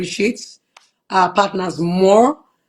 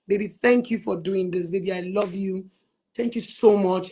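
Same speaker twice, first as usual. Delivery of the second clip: soft tender thanks; 2 semitones lower, 6 dB quieter than usual. Retold or imitated. Voices herself thanking husband.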